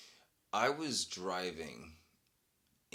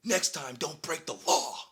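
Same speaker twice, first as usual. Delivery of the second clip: louder, higher smug cop lecture; mock stern cop; 11 semitones higher, 11 dB louder than usual. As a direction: talk down like a petty cop. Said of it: "and he says".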